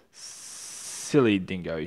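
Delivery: slow scornful hiss. Acted. Lizard sneers at Dingo, slow hiss. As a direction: sneer it slowly. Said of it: "he hissed".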